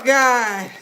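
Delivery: ordinary delivery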